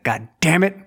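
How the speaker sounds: playful show of annoyance; mock exasperation. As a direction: act out an exasperated outburst. Retold embarrassment before chuckling crew.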